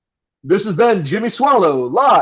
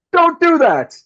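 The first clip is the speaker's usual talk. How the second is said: emphatic scold; 7 semitones higher, slower than usual. Acted. Host scolding listeners emphatically.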